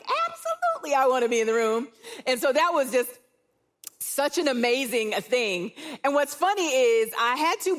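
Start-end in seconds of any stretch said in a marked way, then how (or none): 0.0-1.9 1 eager yes. Retold or imitated. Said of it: "And I'm like".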